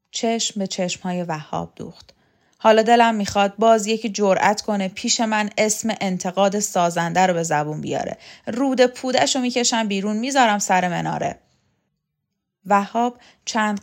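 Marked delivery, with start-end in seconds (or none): 2.6-11.4 daring anyone to speak up, loud; loud threat. Acted. Shokat warning Vahab never to mention criticism, loud menace. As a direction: spit out the threat.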